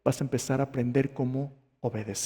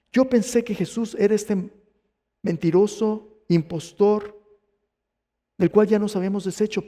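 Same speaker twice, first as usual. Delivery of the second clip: higher, louder incredulous realization; Saulo's disbelief; 6 semitones higher, 4 dB louder than usual. Acted. Saulo realizes whom he took for an impostor, raised incredulous voice. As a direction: spit out the labels separately, pitched up.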